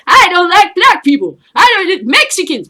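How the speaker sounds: high, loud dumb bigot whine; mocking racist voice. Comic mocking a racist soldier in a loud high whine. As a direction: sneer it out as a loud, high-pitched idiot. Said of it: "and you're there".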